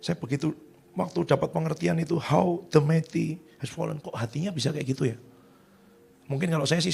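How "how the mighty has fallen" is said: mild lament. Retold or imitated. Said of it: "dia meratap loh".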